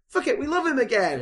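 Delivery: high, hammed-up public voice; mock crowd voice. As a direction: toss it off like a fickle crowd. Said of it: "where everyone was like".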